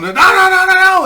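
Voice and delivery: high, loud reenacted yelling; full-volume acted-out panicked yell; screaming warning. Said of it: "We start screaming at him and yelling".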